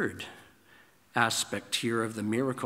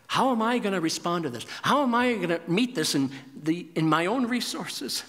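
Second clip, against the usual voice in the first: faster, higher, mildly anxious self-talk; worried inner voice; 5 semitones higher, 4 dB louder than usual. Retold or imitated. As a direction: voice someone fretting to themselves. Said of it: "we look inside and we say".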